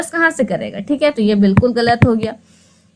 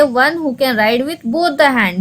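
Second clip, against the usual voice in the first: 1 slow reading; much slower than usual. Shown as a demonstration. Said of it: "एम्बिडेक्स्ट्रस का मतलब हम आपको बता दें".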